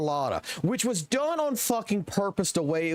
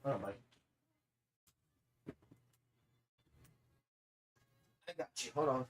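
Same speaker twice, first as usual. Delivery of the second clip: much softer, murmured off to the side; quiet aside; 5 semitones lower, 12 dB quieter, much faster than usual. Real, not acted. Streamer briefly tells Mike to hold on, softly aside. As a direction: drop your voice to answer a friend off-mic.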